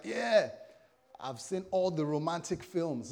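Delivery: eager would-be newlywed; starry-eyed excitement. Acted. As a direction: act out romantic high hopes. Acts out hopeful newlywed.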